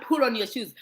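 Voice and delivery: "pull on" for put on, no hard t; American-style slurring. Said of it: "they say "pull on".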